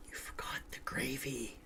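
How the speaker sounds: eerie, voiceless story whisper. Acted. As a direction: whisper it very softly, like a ghost outside. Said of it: "Then the whisper".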